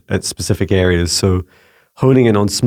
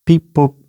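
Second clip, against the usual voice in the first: spoken imitation of a beep, pitched up; higher-voiced two-note beep boop; beep boop sound; 7 semitones higher than usual. Shown as a demonstration. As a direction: imitate a little selector beep. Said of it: "sound as I randomly select one".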